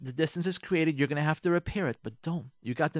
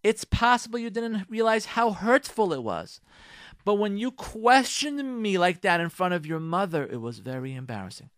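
calm gentle; 6 semitones higher, 3 dB louder than usual. Shown as a demonstration. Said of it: "Meaning like this".

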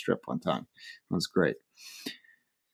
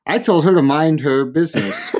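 retold defiance, raised and louder; defiant retort; 5 semitones higher, 4 dB louder than usual. Diner answering an angry husband, mock defiant. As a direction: stand your ground against the husband.

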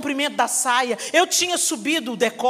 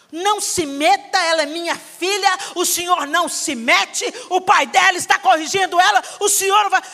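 disrespectful yelling; 5 semitones higher, 4 dB louder than usual. Retold or imitated. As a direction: put your father in his place. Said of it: "desrespeitar o meu pai".

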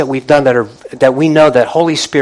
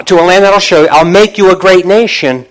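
raised, emphatic scripture reading, slowing on the last promise; excited preaching; 4 semitones higher, 3 dB louder than usual. Real, not acted. Preacher reading God's promise to the congregation, excited. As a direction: proclaim the promise with mounting weight. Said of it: "not excited about that as I am".

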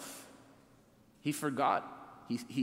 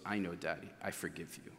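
put-on low, hushed retelling of a child's reply; tender, softly voiced quote, trailing down; soft forgiveness; 7 semitones lower, 8 dB quieter than usual. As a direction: gently imitate a small child forgiving. Retelling small daughter forgiving him at bedtime.

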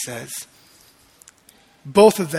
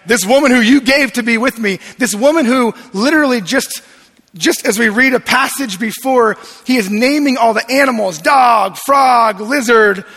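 exasperated Adam; 4 semitones higher, 5 dB louder than usual. Retold or imitated. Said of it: "He then looks at God and goes".

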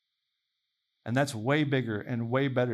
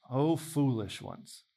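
slow rebuke; 3 semitones lower, 3 dB quieter, slower than usual. Acted. Quoting Jesus' rebuke, drawn out.

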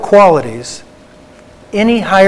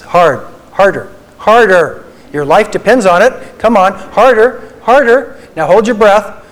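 commands building from plain to louder and higher; drill-coach commands to squeeze fists harder; 4 semitones higher, 4 dB louder than usual. Shown as a demonstration. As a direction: push the room like a drill coach, escalating. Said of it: "put your hands out like this".

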